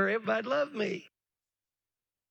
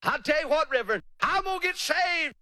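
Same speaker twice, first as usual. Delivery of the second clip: higher, wheedling put-off voice; delayer's excuses; 4 semitones higher than usual. Retold or imitated. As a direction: stall the preacher with polite excuses. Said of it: "They're delayers".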